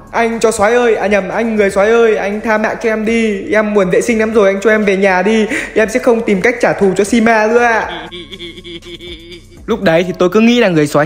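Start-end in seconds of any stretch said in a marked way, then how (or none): 0.1-8.1 mock pleading. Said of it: "quay lại và nói chuyện với nó". (giả vờ van xin, giọng cao kéo dài)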